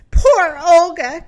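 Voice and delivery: loud, slow lament; crying out. A narrator's reading. Pig lamenting the lost Olga, crying out. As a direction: wail it with drawn-out dismay. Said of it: "cried a pig".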